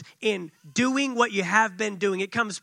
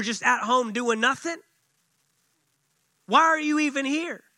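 angry Eliab. Retold or imitated. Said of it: "Eliab gets angry".

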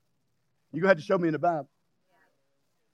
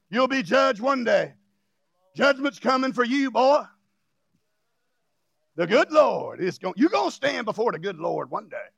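mock fire-and-brimstone warning; lightly hammed-up doom warning; scary judgment preacher. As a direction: imitate a preacher threatening judgment. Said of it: "that was trying to scare me bad".

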